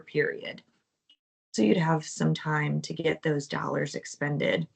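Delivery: hoarse, strained voice from the flu; hoarse voice, nearly gone; losing voice. Real, not acted. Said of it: "I'm losing my voice".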